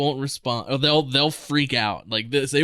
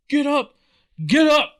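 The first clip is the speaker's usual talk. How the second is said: higher, louder barked order; drill sergeant yell; 12 semitones higher, 5 dB louder than usual. Retold or imitated. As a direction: bark it like a drill sergeant standing over him. Drill sergeant yelling at recruit.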